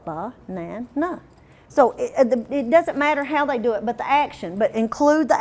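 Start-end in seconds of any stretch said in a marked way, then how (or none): 0.0-1.2 "Banana" soft and slow, beat by beat; quiet syllable tapping. Shown as a demonstration. Teacher showing pencil tapping, soft and slow. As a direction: softly tap out "Banana". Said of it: "They can pencil tap it".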